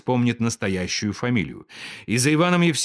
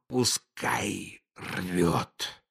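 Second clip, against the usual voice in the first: much softer, lower, very slow; weary resignation; 5 semitones lower, 8 dB quieter, much slower than usual. A narrator's reading. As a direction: give up, exhausted. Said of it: "решил он".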